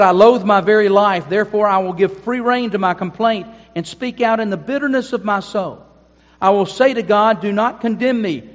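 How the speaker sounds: Job's bitter cry against God, read with fervor; impassioned scripture reading. Acted. Reads Job's lament aloud.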